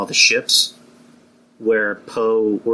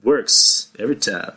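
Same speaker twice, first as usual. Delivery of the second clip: lightly voiced suave catchphrase; Billy Dee Williams impression. Repeating the impression for the people, lightly voiced. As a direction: repeat it smoothly as the actor. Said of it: "that's my Billy D Williams impression".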